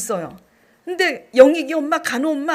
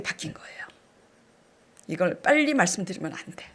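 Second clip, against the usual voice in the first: 1 whisper; 6 semitones lower, 6 dB quieter, faster than usual. Real, not acted. Teasing suspense before the reveal.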